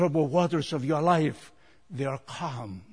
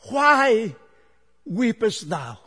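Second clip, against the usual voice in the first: loud, high "why", then easing down; projected, emphatic scripture quote; risen Christ's question; 8 semitones higher, 9 dB louder, slower than usual. Acted. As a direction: call out the question from the pulpit. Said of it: "raised the same question".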